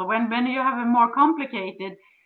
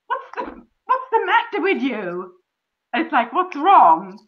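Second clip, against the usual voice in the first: nagging complaint. Retold or imitated. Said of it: "Don't go into them".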